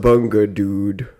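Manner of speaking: lightly drawled surfer dude; a hint of Californian surfer slacker; California surfer dude accent. Imitates a Californian for the co-host, surfer dude accent.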